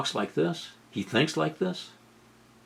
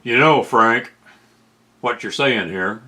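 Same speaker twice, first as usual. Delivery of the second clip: Brian Williams impression; 3 dB louder than usual. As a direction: lightly imitate a TV anchor nodding along to his guest. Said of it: "he gets that".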